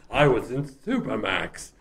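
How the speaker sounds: slow, hammy horror-actor voice; Boris Karloff. Acted. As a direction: declare it like a horror-film doctor, drawn out. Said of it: "doing a Boris Karloff impression".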